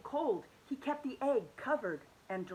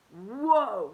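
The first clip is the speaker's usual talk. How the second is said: surprised; 9 dB louder than usual. Acted. Hoppy sees twirling egg.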